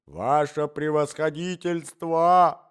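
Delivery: slow, loud, drawn-out appeal; imploring cry. A narrator's reading. Intruder turning to appeal with folded hands, imploring cry. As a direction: stretch the title into a plea. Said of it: "кричал Иван Андреевич".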